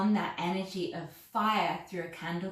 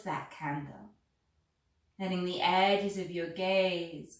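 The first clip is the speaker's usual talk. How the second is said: guided meditation. Acted. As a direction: gently talk them into gazing at the flame. Candle gazing meditation guidance.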